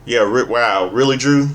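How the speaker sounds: can't believe what he's hearing; incredulous. Real, not acted. Reacting to Drew blaming fans.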